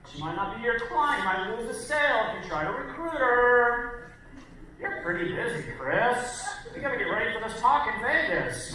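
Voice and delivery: lightly mock your own nagging self-doubt; bitchy little voice. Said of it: "That's what my bitchy little voice sounds like".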